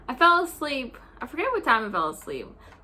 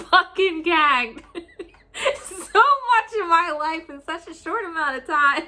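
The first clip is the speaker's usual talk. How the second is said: laughing; 3 semitones higher than usual. Real, not acted. Laughing retelling.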